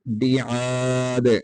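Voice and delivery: बिआद ending in a bounced dal; qalqala on dal. Shown as a demonstration. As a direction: echo the final dal. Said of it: "यहाँ पे कलकला करेंगे".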